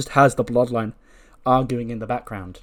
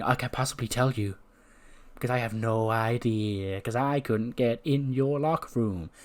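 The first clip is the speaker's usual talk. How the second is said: taunting Seth Rollins. Acted. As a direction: plant doubt with unhurried teasing. Plays Seth's slow taunting promo.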